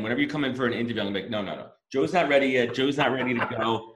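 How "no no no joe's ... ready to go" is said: hype man. Pretend. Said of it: "your hype man".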